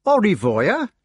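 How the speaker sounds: high, lilting rustic farewell; good-humoured. A narrator's reading. Hedgehog parting from the despised committee, good-humoured. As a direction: toss off a cheery goodbye. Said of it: "he observed good-humouredly".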